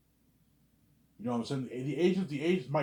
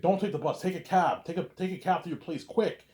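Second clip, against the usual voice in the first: higher and louder commands, quick at the end; urgent orders; 6 semitones higher, 3 dB louder than usual. Retold or imitated. Messiah ordering the narrator to take a cab, loud and urgent. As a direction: bark orders to get him moving. Urgent instructions in retold chase.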